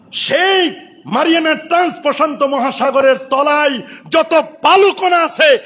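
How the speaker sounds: ringing sermon delivery; impassioned preaching. Acted. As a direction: preach it out to the crowd. Preaches at full force.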